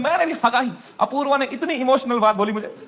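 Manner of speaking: ordinary talk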